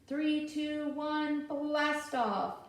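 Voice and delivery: hammed-up launch countdown. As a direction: count down to blast off with a bit of excitement.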